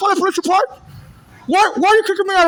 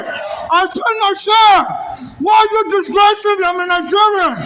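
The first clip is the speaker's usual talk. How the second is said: angry shouting. Real, not acted. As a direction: shout the protest. Shouting protest at officers.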